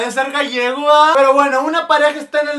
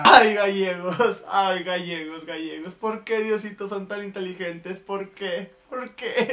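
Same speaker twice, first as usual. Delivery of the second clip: fading, slow sigh about gallegos; hammed-up despair, much softer to the end; mock lament; 4 semitones lower, 4 dB quieter, slower than usual. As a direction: lament to heaven, trailing off.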